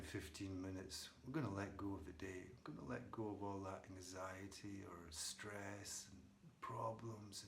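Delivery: soft, unhurried meditation guide; quiet meditation lead-in with long pauses; guided meditation. Real, not acted. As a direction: ease them gently into the present moment. Leads into a meditation.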